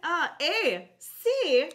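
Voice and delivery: high, loud hammed-up Canadian accent; mock Canadian accent. Cohost hams a Canadian accent for the show, hammed-up Canadian accent. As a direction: play up a goofy Canadian accent. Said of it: "I don't think that's a Canadian accent".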